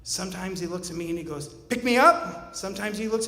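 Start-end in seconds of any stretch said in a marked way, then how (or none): 1.5-2.6 put-on higher, louder and slow, like a two-year-old; drawn-out little-kid demand; toddler voice. Dad voicing his toddler asking to be picked up, slow and high.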